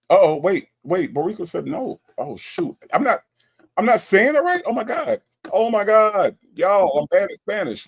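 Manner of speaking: high-pitched, loud flustered outburst; dismayed. Real, not acted. Streamer told the pronunciation is still wrong, loud high dismay. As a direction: exclaim in alarm at your own mistake.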